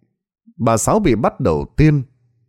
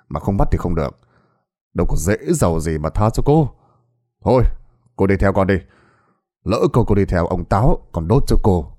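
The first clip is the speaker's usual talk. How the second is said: lower, tired resigned officer; weary sigh; 3 semitones lower than usual. Acted. Policeman tiredly scolds his repeat offender, low weary sighing voice. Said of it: "Anh thở dài nói".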